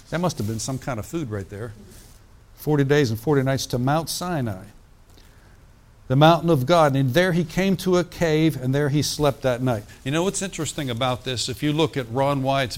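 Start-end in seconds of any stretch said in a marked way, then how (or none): 2.6-9.8 reading the Bible aloud to the congregation, a touch louder; scripture reading. Acted. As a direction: lift the passage from the page like a preacher. Preacher reads scripture aloud.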